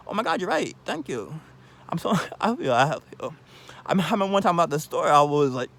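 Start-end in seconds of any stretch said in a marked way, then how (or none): 0.1-1.4 mildly acted awe, higher pitched then settling; impressed. Speaker acting out being proved wrong, impressed. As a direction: play being impressed at being corrected, lightly. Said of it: "I'm impressed".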